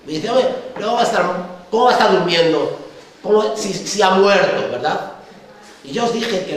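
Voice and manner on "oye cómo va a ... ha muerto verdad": mocking disbelief. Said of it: "Se ríen, se ríen".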